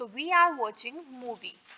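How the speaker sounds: each word spaced out slowly for students; slow, clear classroom dictation. Shown as a demonstration. Teacher dictating model sentence.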